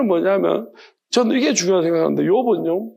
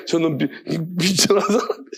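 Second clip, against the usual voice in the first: slow, sheepish reply to God; a lightly voiced, abashed Job caught out; meek humble Job. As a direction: shrink small before God. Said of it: "욥이 주님께 대답합니다".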